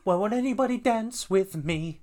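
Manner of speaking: high, loud, laughing whine; laughing mock plea. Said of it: "Go on".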